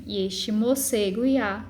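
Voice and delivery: "moce goiá" read slowly, go-i-a glided into one syllable; slow verse reading, melt the vowels in "goiá"; vogais fundidas. Shown as a demonstration. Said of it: "é como se eles se fundissem". ("goiá" com as vogais juntas numa só sílaba)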